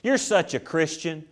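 lightly put-on gushing sympathy, kept soft; mock admiration. Churchgoer praising the suffering servant, mock-admiring. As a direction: imitate a softly fawning church member. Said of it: "trying to get somebody to go".

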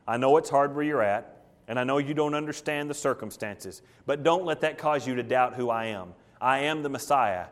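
low, soft, consoling admonition; gentle rebuke. Acted. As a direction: gently urge a struggling friend to hold on. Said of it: "It's a simple rebuke".

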